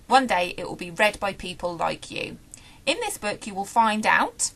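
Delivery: lightly voiced child narrator reading aloud; reading the blurb. Reviewer reading the book's blurb to viewers, storybook reading voice. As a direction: read it as the girl's own chirpy introduction.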